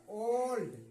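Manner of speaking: ओल्ड with a long, round o. Shown as a demonstration. Teacher showing the o sound, ओल्ड with long o. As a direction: draw out the o in ओल्ड. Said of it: "ओ हो रहा है".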